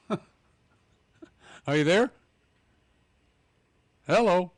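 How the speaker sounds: loud, slow calls down a bad line; shouting into a phone. Real, not acted. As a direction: call out over a dropped line. Calling a dropped caller.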